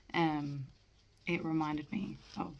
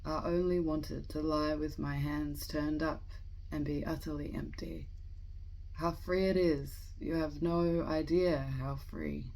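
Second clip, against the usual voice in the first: measured, deliberate poem recitation with pauses between phrases; poetry reading; 4 dB louder, slower than usual. Acted. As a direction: read the poem aloud, letting each line settle. Reads a poem aloud.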